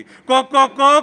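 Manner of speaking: rhythmic imitation of a rooster's call; lightly voiced rooster refrain; crying rooster. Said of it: "कोंबो रडटा".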